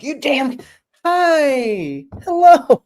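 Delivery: angry snap flipping into a high, sweet phone greeting; mom's phone voice switch. Retold or imitated. Mom cutting off her yelling to answer the phone sweetly. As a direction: go from scolding the kids to a bright high hello on the phone. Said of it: "It's like her phone voice".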